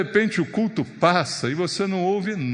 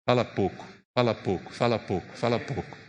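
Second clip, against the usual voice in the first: soft repeated murmur; 7 semitones lower, 6 dB quieter than usual. Shown as a demonstration. Preacher softly drills the flock: hushed, fading repetition. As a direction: quietly repeat fala pouco, fading softer each time. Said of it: "eu falo pra você, ó".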